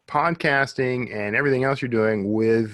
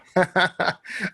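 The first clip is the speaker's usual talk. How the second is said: laughing; 7 semitones higher than usual. Real, not acted. Laughing at own joke.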